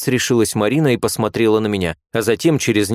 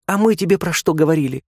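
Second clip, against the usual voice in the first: put-on higher girlish voice, self-satisfied; smug young nurse; 8 semitones higher than usual. A narrator's reading. Nurse gloating to Marina, smug. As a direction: gloat that you were right. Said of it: "самодовольно произнесла вторая".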